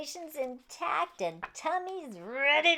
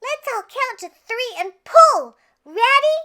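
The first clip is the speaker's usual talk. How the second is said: eager rallying call; 12 semitones higher, 14 dB louder than usual. Acted. Sophia rallies the crew.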